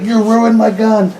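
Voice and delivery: high, drawn-out mock wail; hammed-up high-pitched protest; mock freak-out. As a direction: imitate a movie hero freaking out, slow and high. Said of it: "he's freaking out".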